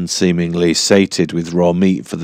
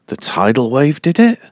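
higher, incredulous question; surprised question; 7 semitones higher than usual. Acted. Dyke asking Keiko about the new island, higher disbelief. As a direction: ask it as if hardly believing it.

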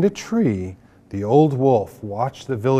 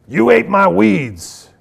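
surprised; 6 semitones higher, 4 dB louder than usual. A narrator's reading. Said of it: "the old wolf said".

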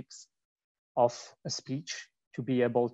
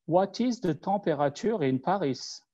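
English question with a French accent; 6 semitones higher than usual. Shown as a demonstration. Asking the voice search in a French accent. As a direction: let your French accent colour every word. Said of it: "I use my French accent".

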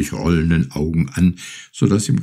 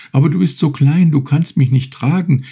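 higher, louder doubtful cry; still doubtful, calling out; 9 semitones higher, 4 dB louder than usual. A narrator's reading. Fisherman doubts the tiny turtle can carry him, calling out. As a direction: call out your doubt about her small size. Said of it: "rief Urashima, noch immer bedenklich".

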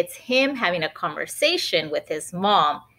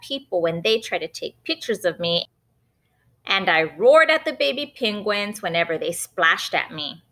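Benny's voice; 2 semitones higher than usual. Acted. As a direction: push her with a teasing question. Benny's zoo question.

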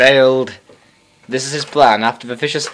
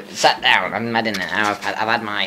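low, softer mock of a friend; James impression; 5 semitones lower, 4 dB quieter than usual. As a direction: imitate a self-satisfied mate in a lowered voice. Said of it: "when I do impressions of you".

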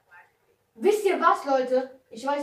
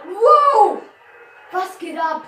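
surprised wow; 9 semitones higher, 15 dB louder, much slower than usual. Real, not acted. Car crash while driving.

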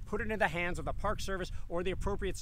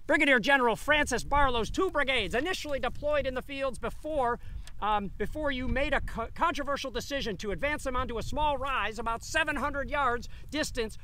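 put-on old-timey voice; 4 semitones higher, 3 dB louder than usual. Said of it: "read this in an old-timey voice".

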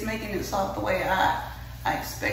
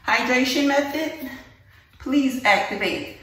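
slow, louder mock robot command; playful commanding voice; 4 semitones higher, 4 dB louder than usual. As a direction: intone it like activating a superpower. Mock command to hair mask.

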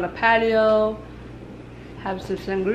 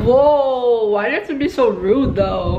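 surprised; 2 semitones higher, 3 dB louder than usual. Real, not acted. Reacting to boyfriend's tone.

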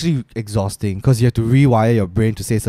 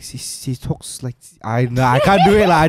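put-on Spanish accent. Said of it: "they do something to the S".

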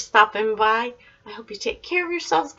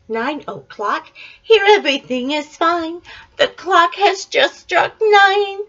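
lively picture-book read-aloud; reading to children. A narrator's reading. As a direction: read it like a bedtime book for a toddler.

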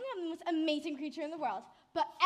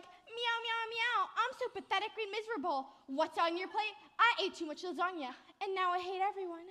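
higher, whiny mock meowing; mocking cat imitation; 5 semitones higher than usual. Spider mocking the cat, whiny impression. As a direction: make fun of the cat. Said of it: "Are you mocking me?".

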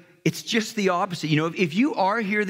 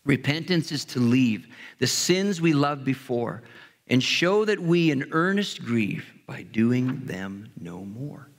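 poem recital; 3 semitones lower than usual. Acted. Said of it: "Listen to this poem".

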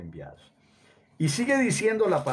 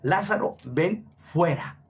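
a summoning cry, raised and slow; loud call; 3 semitones higher than usual. Acted. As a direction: call him out of the tomb, drawn out. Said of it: "y clamó a gran voz".

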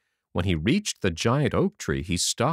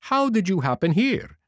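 fox voice; 10 semitones higher than usual. Acted. Fox greets Pinocchio.

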